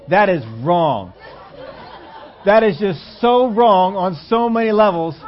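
slow, loud, appalled; disgusted. Real, not acted. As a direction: drag it out in disgust. Reacting to bacon cream Oreo.

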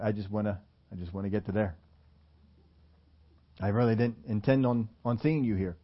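low, subdued, halting excuse; mild mock brush-off. Imagined brush-off voiced as Jesus.

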